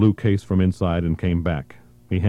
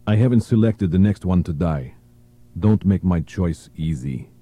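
menacing captor. Acted. Gunman threatens delegates.

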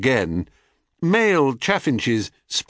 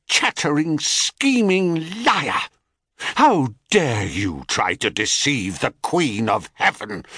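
furious goddess; 3 semitones higher than usual. Acted. Furious goddess berating nymph.

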